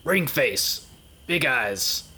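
mild in-character yell, pitch climbing midway. Acted. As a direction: call out to slacking lookouts, annoyed. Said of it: "And I just yell".

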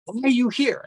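loud, high-pitched yell with pauses between phrases; acted-out shout of reprimand; retold angry yell. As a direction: yell it as the facilitator catching him out. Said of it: "and he yells".

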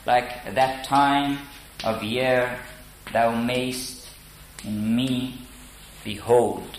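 slow, measured iambic reading; slow verse, weak-strong beat; iambic recitation. Shown as a demonstration. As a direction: read the Shakespeare line in even iambs. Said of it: "it is iambic pentameter".

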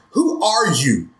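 a hint of a wary little girl; child asking. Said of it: "Missy says".

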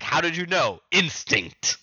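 high-pitched mock outburst; excited retelling of a showdown; acted-out exclamations. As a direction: play a startled question and a punchy answer. Acts out Luffy and foe's exchange.

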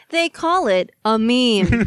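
slow, laughing reporter read; news reporter voice. Pretend. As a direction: anchor voice through a laugh. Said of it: "That's actually really good".

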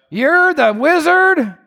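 high, slow, unbelieving; mock surprise. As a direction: stretch it out in mock amazement. Mock reveal of Oz wizard.

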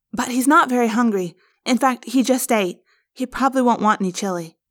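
gently making excuses for him; worried girl. Acted.

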